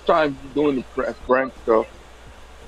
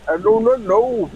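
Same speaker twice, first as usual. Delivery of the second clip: put-on Indian accent; 6 semitones higher than usual. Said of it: "It's from India".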